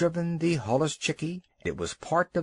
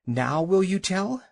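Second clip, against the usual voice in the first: out of breath; 6 semitones higher than usual. A narrator's reading. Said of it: "all out of breath".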